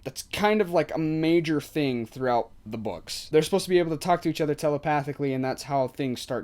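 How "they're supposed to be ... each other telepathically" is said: rushed, fast rerun of the same line; fast repeat. Real, not acted. Vlogger repeats the telepathy point to viewers, fast. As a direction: rattle it off quickly to drive the point home.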